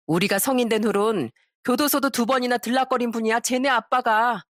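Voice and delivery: lightly acted knowing taunt; pointed storyteller's dialogue, a touch smug; mocking exposer. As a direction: reveal the dirty secret with relish. Acts out exposing the father.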